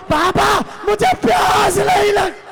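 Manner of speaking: impassioned wail, voice breaking; weeping child's cry. Retold or imitated. Sakina clutches her father's robe, weeping wail. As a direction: sob it out as a pleading little girl. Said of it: "رو کر کہا".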